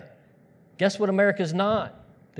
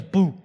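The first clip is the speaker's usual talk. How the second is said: hammed-up ghostly boo; short playful boo; mock scary boo; 3 dB louder than usual. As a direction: feeble costume-monster scare. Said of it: "like a bad Halloween costume".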